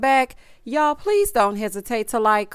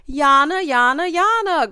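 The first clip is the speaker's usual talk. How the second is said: mocking repetition; 5 semitones higher than usual. Mocking Zariah's fixation.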